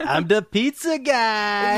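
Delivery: big, slow, hammed-up movie line; over the top. Mimicking the film actor to co-hosts, over the top. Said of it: "See, that's over the top".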